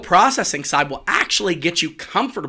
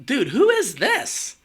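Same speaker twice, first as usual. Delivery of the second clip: higher, slow, disbelieving; mock disbelief at a stiff speaker; incredulous; 8 semitones higher, slower than usual. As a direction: ask it as if not recognizing a friend. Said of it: "I'm like".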